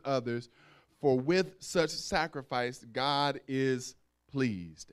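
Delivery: measured reading, slowing at the end; lightly formal scripture read, slowing at the close. Acted. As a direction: read the verse with reverence. Reads scripture verse.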